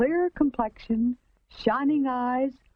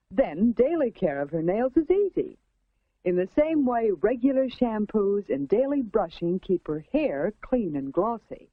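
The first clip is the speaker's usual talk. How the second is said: 1950s narrator. A narrator's reading.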